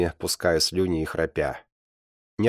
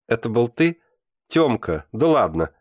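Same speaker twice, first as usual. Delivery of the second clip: higher, louder delighted astonishment; can't believe it, tickled by the news; amused disbelief; 6 semitones higher, 5 dB louder than usual. A narrator's reading. Alyonka learns Tyoma was the secret avenger, amused disbelief. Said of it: "а потом рассмеялась".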